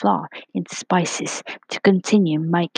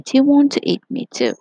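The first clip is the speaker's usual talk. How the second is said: worried little voice; 8 semitones higher, 4 dB louder, faster than usual. A narrator's reading. Worried cookie asks butterfly.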